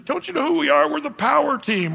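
boastful shout. Retold or imitated. Strongman boasting to Peter.

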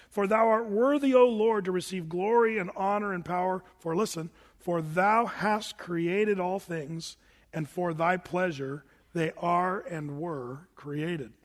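slow, solemn reading of the verse; scripture reading. Acted. Pastor reading Revelation to the congregation, slow and solemn. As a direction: read the verse slowly and solemnly.

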